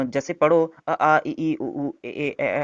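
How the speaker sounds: vowels अ आ इ ई called out one by one; reciting vowels. Shown as a demonstration. Teacher recites vowels for the class, slow and deliberate. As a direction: read out each vowel slowly for the class. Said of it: "आप एक बार".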